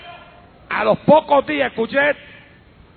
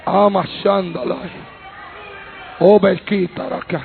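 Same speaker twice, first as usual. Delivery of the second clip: speaking in tongues; 3 semitones lower than usual. Real, not acted.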